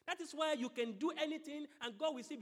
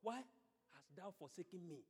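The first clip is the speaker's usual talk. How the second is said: Jesus' cry; 6 semitones lower, 7 dB quieter than usual. Acted. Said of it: "And Jesus cried".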